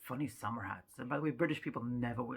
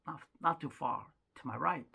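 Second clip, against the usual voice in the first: ordinary talk, nothing marked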